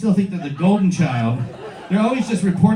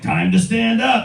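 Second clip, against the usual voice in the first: lightly voiced nagging dad, higher and slow; 4 semitones higher, slower than usual. Smartwatch ordering its owner up, hint of nagging dad. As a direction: draw out the order like a mildly pushy dad. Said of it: "asshole dad, these things".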